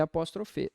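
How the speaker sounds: "apóstrofe" with final -fe; mistaken pronunciation. Shown as a demonstration. Teacher quoting people's mistake, "apóstrofe" ending in -fe. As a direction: quote the common slip "apóstrofe", ending on E. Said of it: "as pessoas confundem em português".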